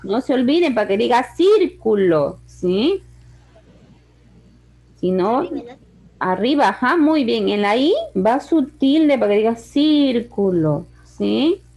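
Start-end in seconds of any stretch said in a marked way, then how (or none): 1.3-2.4 "círculo" with a drawn-out, punched CÍR; stressed syllable. Shown as a demonstration. Teacher sounds out the accented syllable. 9.5-10.9 "círculo" with a stretched, stressed CÍR; stressed syllable. Shown as a demonstration. Teacher shows where the tilde falls.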